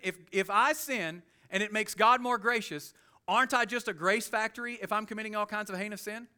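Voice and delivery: a preacher lightly voicing a cheeky objector; mock objector. Preacher voices the objecting questioner.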